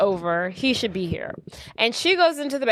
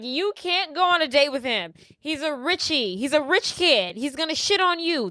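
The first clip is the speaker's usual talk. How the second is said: higher-pitched, insistent retold protest; mildly worked-up plea, pitched up; acted warning; 4 semitones higher than usual. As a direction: imitate a friend objecting to her date. Acted quarrel, jealous friend warns her.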